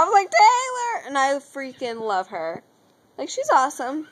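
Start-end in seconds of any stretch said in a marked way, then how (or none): 0.3-1.1 high-pitched mock fan scream; retold scream. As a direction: cry out the idol's name. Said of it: "I screamed really loud".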